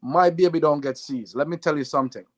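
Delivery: put-on light Jamaican accent as his mother; mom's Jamaican lilt, lightly done. Mother calling her son over, in a light Jamaican accent. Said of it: "in a Jamaican accent".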